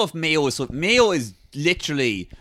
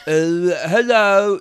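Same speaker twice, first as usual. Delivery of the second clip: slow, failed funny voice that sounds sad; lightly glum, drawn-out hello; 3 dB louder, much slower than usual. Acted. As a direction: drag out the greeting with a touch of sadness. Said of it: "That's a sad voice".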